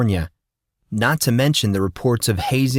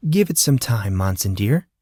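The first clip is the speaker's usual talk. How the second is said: cheesy sweet. Acted. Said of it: "flashed her biggest, cheesiest smile".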